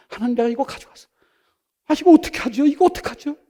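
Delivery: high-pitched retold prayer; high, overwhelmed asking; distressed plea. Retells tearful prayer over money.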